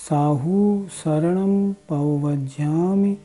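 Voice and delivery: steady chanted recital of a prayer text; formal recitation. Shown as a demonstration. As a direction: recite each line evenly, with a pause after every line. Recites the Chattari Dandak as a model. (गंभीर पाठ की शैली)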